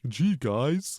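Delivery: lightly voiced goofy cartoon kid; a hint of an old cartoon sidekick; vintage cartoon voice. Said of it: "that's like a cartoon character voice right there".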